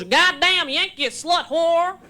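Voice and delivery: slow, drawn-out mock Texan insult; insulting Texan man. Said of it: "He goes".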